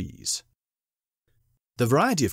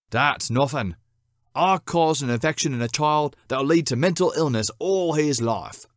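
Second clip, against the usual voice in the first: boasting cat; 4 semitones higher, 4 dB louder than usual. Acted. Second cat outdoes the first.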